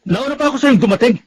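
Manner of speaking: scolding an unfaithful wife; angry confrontation. Acted. Husband confronts late-coming wife. (galit na panunumbat)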